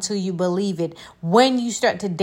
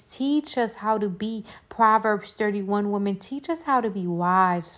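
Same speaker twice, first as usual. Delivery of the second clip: prayer. Real, not acted. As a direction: pray over the listeners gently. Leads a closing prayer.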